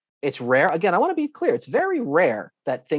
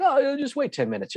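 imitating an airline agent brushing someone off; high-pitched, lightly mocking brush-off; breezy dismissal; 12 semitones higher than usual. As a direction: wave them away in a higher voice.

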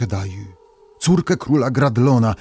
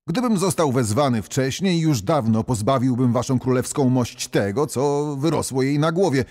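higher, softer, careful bargaining; pleading old barber; 4 semitones higher, 3 dB quieter than usual. Acted. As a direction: lift the voice and plead gently.

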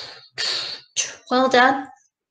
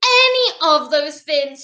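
put-on mild high-pitched child's wail; protest, starting high and easing down; storybook wail of innocence; wailing princess; 6 semitones higher, 4 dB louder than usual. A narrator's reading. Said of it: "she wailed".

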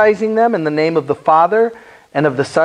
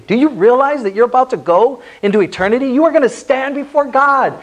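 apologetic plea; 6 semitones higher than usual. Shown as a demonstration. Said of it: "You say that apologetically".

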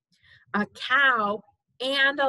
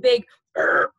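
loud burped words; 6 dB louder than usual. Pretend. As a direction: belch the words out. Baby burps loudly.

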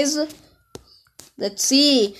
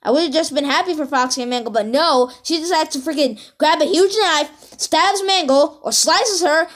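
animated rant, pitch lifted; real but mild outrage; worked-up raging. Real, not acted. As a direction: rant indignantly about what she did. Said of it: "I'm freaking raging right now".

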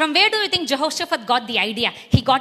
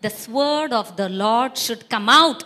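firm declaration. Shown as a demonstration.

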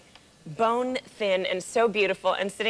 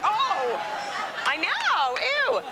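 high, gasping mock shock; a hammed-up shocked ew; 11 semitones higher, much slower than usual. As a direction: squeal it like a scandalized girl. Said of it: "I was like".

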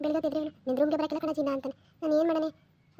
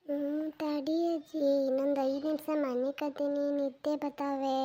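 slow, drowsy mumble from bed; half asleep, beg for more time; slow sleepy boy pleading; sleepy grandson; slower than usual. Acted. Sleepy boy begs five minutes.

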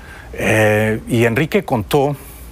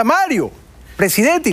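lightly voiced supporter calling out, higher pitch; señora entusiasta imitada; 10 semitones higher than usual. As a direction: imitate a woman hailing her candidate. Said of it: "Venía una señora con un pavo". (imitación ligera de una señora llamando)

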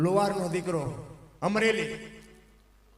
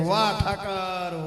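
very slow, drawn out wonder; slow praise; 2 semitones lower, much slower than usual. Acted. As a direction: savour the words to God. Saint on donkey praises God. (ધીમે ધીમે વાહ)

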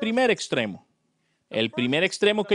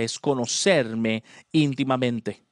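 gentle voice of God; 6 semitones lower, slower than usual. Retold or imitated. God gently telling the young preacher what matters, low and slow. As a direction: lower and slow, tender answer.

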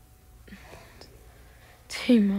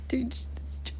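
whisper; 10 dB quieter than usual. Real, not acted. Frustrated at a broken game.

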